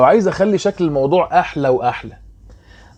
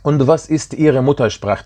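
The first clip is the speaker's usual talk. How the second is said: slow demo; much slower than usual. Shown as a demonstration. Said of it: "teacher reads German question".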